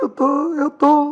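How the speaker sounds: put-on sobbing, very high and drawn out. Retelling a phone call with a missionary, retelling own crying. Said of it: "e eu chorando".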